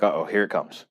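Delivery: quiet dread. Retold or imitated. Dreading the clerk's bad news.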